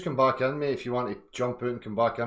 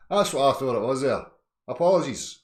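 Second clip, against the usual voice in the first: laughing; 5 semitones higher, 8 dB louder than usual. Real, not acted. Laughing after his own impression.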